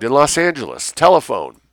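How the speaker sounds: high, loud frantic scream; shrieking in terror. A narrator's reading. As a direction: cry out in panic for her mother. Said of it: "Jennifer screamed".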